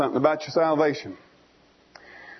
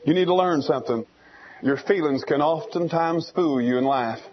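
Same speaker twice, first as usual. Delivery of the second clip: mother eagle's advice; 4 semitones lower than usual. Retold or imitated. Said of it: "And Mama says".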